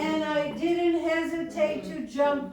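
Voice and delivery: emphatic preacher delivery, slowing at the end; preaching. Acted. Preacher telling congregation to seize the moment, emphatic preaching. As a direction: drive the point home like a preacher.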